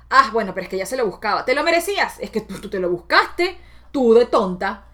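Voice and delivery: smug, fast blaming tone; judgmental inner voice. Retold or imitated. Her own judging voice blaming a friend, mildly smug. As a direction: look down on a friend who asked for it. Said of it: "la otra voz que era la mía en juicio".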